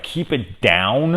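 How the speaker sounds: slow, disbelieving repeat, rising at the end; incredulous echo. Retold or imitated. Mocking the neighbor's request after gunfire, slow and incredulous. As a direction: echo "Keep it down?" back in mock disbelief. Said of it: "And it's like".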